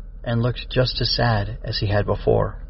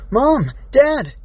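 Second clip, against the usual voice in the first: put-on high-pitched child calling for parents. A narrator's reading. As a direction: call out for help, pitch leaping. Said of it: "she called".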